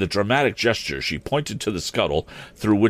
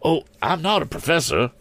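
quick denial; 10 semitones higher than usual. Acted. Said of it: "he said quickly".

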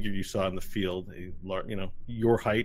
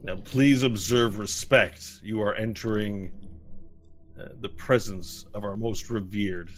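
stern guard; 6 dB louder than usual. Acted. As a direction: give orders like a temple guard. Guard voice continues.

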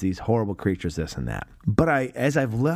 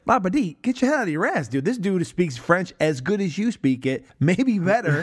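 higher, exasperated call-out; mock scolding; 7 semitones higher than usual. Fan scolding Lapidus at the screen, exasperated and high. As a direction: yell at the screen in disbelief.

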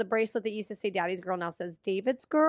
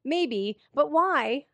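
incredulous; 5 semitones higher than usual. Retold or imitated. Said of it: "I'm like".

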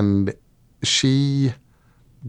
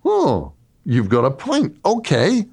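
gullible gods; 9 semitones higher than usual. Retold or imitated. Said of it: "the gods go".

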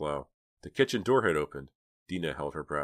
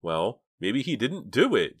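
slow, higher, thoughtful suggestion; 6 semitones higher, 6 dB louder, slower than usual. A narrator's reading. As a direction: float the doubt slowly, pondering. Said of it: "Jade said thoughtfully".

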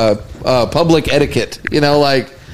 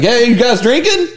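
higher goofy party voice; a light mock of an eager lightweight; mimicking his friend; 7 semitones higher than usual. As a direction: ape how the guy talks. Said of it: "And that's how he talks".

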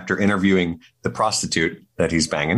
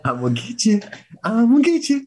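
building monster shriek; 14 semitones higher than usual. Pretend. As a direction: rise from a creep to a screech. Repeating Striga threat.

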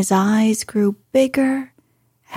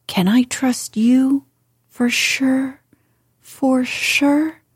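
pleading that climbs higher with each phrase; imploring; 4 semitones higher than usual. A narrator's reading. Mary begging Colin to keep the secret, rising plea. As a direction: press harder each time, rising pitch. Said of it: "she implored".

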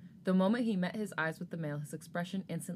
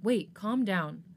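slow, soothing hold-back; slow him down gently; calming; 4 dB louder, much slower than usual. Acted. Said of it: "attempted to calm him down".

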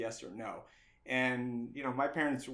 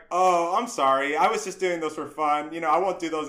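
apologetic; 3 semitones higher, 9 dB louder than usual. Retold or imitated. Apologizing to the instructor.

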